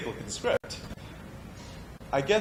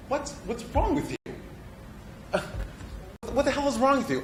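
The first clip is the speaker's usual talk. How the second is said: high, sharp frustrated cry; fed-up actor shouting at someone who won't understand; exasperated outburst; 11 semitones higher than usual. Acted. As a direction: throw it at them in frustration. Exasperated at listener's mishearing.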